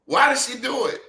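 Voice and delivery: high-pitched theatrical plea; mock anguish. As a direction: ask it in hammed-up despair. Host repeats theatrical demand.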